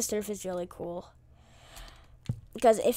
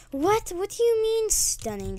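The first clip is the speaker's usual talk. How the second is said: startled disbelief; 10 semitones higher than usual. Real, not acted. Surprised by stun.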